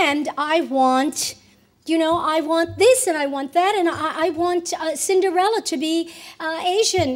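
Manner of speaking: insistent demands. Retold or imitated. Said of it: "and I said to them".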